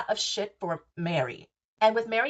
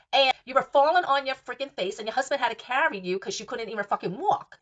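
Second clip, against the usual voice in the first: mock outraged rant; 3 semitones higher than usual. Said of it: "I talk like that".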